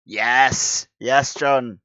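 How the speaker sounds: loud happy cheer; excited cheer. Real, not acted. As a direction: cheer him on. Cheering for John.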